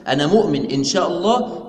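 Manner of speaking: "أنا مؤمن إن شاء الله" stated steadily as a confident affirmation; affirming believer. Shown as a demonstration. Teacher voicing the correct intent, mildly assured. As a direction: say it as a settled declaration of faith. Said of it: "يعني أنا مؤمن مقر بإيماني".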